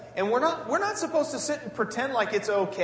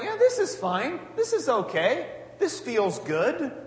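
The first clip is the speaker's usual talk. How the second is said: higher, breezy, pretending all is well; mock cheerful; 4 semitones higher, slower than usual. Preacher imitating David hiding in the cave, mock cheerful. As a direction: lightly play a man faking calm in danger. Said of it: "David sat in the cave going like".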